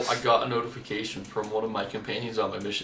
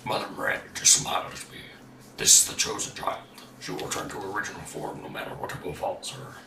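a lightly lowered voice reading a diary; deepest voice. Pretend. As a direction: read the notes in your deepest voice. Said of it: "How was that for a low voice".

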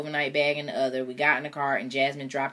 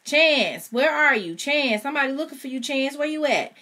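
high, loud call across the projects; yelling up at a building at midnight; screaming out; 11 semitones higher, 6 dB louder than usual. Acted. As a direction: scream his name up at the building. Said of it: "at the top of her lungs, she screamed".

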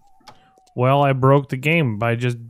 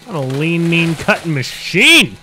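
hammy boast; 7 semitones higher, 10 dB louder than usual. Real, not acted. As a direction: boast like an action hero. Playful boast while chopping.

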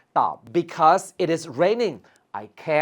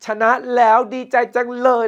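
acted delight; 7 semitones higher, 5 dB louder, faster than usual. Shown as a demonstration. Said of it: "ำว่า yeah".

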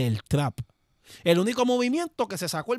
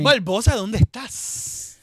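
loud, raised call with a drawn-out end; mock calling out; 3 semitones higher, 7 dB louder, much slower than usual. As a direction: call out as if searching for someone. Calling out to absent Barbosa. (llamando a voces, en broma)

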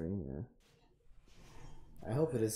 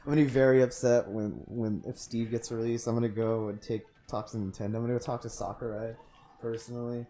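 whiny entitled fan; 3 dB louder than usual. Pretend. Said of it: "Do I sound like a whiny privileged person?".

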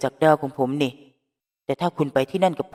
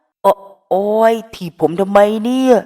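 hammed-up ouch, higher and louder; faked pain; 5 semitones higher, 7 dB louder, slower than usual. The speaker pretends the kick hurt, mock whine. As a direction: playact being hurt for attention. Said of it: "แต่ทำเป็นเจ็บ".

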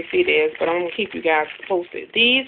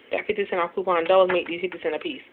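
talking fast; 6 dB quieter, faster than usual. Real, not acted. Couponer hurrying through a deal for viewers, talking fast. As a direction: run quickly through the coupon details. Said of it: "I know I'm talking fast".

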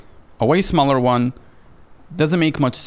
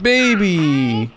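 scared horror game streamer; 6 semitones higher, 3 dB louder than usual. Real, not acted.

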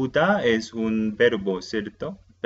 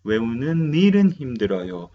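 correct grammar demo; 4 dB louder, much faster than usual. Shown as a demonstration. Teacher gives students the correct version, as a clear model. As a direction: model the right form 외우는 일은 힘들어요 clearly. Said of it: "No, no se dice así".

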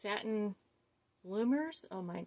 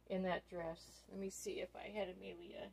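whispering; 9 dB quieter than usual. Real, not acted. Trails off thinking aloud.

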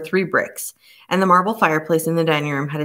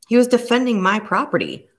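higher, sharp indignant snap; snapped; 7 semitones higher than usual. A narrator's reading. Robert snaps at the inspector defending his property, sharp indignant retort. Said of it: "Robert snapped".

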